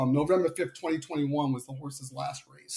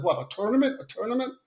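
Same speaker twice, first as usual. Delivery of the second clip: put-on raised, incredulous echo of a Long Island accent; teasing Long Island imitation; mocking Long Island accent; 7 semitones higher, faster than usual. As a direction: mimic the Long Island "tournament" as a question. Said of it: "real heavy Long Island accent. He's like".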